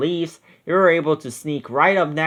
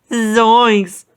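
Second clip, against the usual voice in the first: higher, louder startled yelp; puffing Shaggy; 7 semitones higher, 5 dB louder than usual. A narrator's reading. Shaggy fleeing the monster, higher puffing yelp. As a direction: gasp it out while running. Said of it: "puffed Shaggy".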